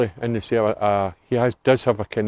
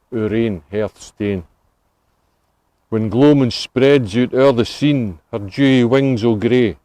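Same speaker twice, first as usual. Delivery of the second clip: Scots poem recital. Acted. Guide recites Burns to the tour group, measured poem recital. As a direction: read the Burns verse in a measured, lilting recital. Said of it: "this one's called My Ain Hearth Stane".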